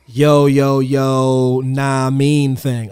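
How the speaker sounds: slow, drawn-out mock Black American slang; mock black accent. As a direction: lightly imitate a stereotyped Black American accent, dragging it out. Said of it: "Yeah, the black scent".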